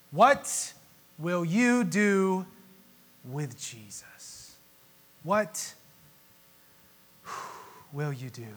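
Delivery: drawn-out, dropping to near hush; slow, searching challenge. Real, not acted. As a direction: let each word hang. Sermon's challenge question.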